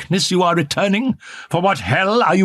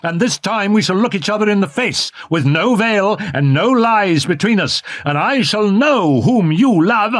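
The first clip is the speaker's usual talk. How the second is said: raised, higher angry voice, building; angry jealous outburst; 5 semitones higher than usual. A narrator's reading. Jealous lover confronting her in the box, angry. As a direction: lash out in jealous rage. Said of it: "he repeated angrily".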